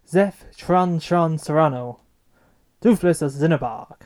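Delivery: "Zeph Tron Tron Serrano", with Tron said as trahn; "Zeph" opens on a z and ends on f; corrected pronunciation. Shown as a demonstration. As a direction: say "Tron Tron" with a tr sound opening both words. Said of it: "the correct pronunciation is".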